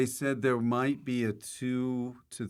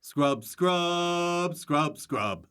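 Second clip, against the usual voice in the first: higher, drawn-out scrub takes; repeated recording takes; 4 semitones higher, much slower than usual. Acted. Actor shows host the recording session, repetitive performed takes. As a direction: act out endless studio takes of one word. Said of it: "the recording would just be".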